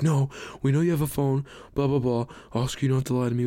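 lightly hammed-up disbelieving principal; imitating insistent staff. Staff tell the student they know he has a phone, mock insistent.

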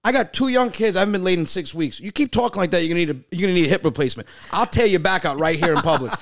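high, loud, revved-up rant; hammed-up tough-guy retort; fired-up retold comeback. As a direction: tear into her, way up and loud. Retelling heated comeback to old lady.

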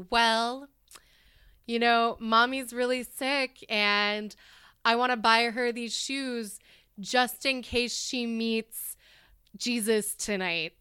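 put-on slow, halting child's sad plea; retold kid. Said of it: "And the kid's like".

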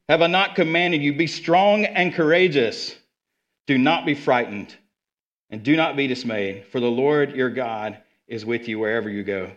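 steady proclaiming verse read, stress on not; preacher reading scripture aloud. Acted. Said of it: "reading the verse".

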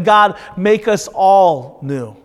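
slow, earnest plea; slow prayer. Acted. Congregation's confession to God, slow earnest prayer. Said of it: "that's what we're stating".

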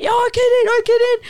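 high mock yell; retold yelled reply. Replying to the girl outside the club, mock yell.

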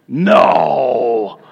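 a sudden shouted no at the surprise; shocked no. Real, not acted. Preacher sees the delivery, a sudden shouted no. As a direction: cry out as the box opens.

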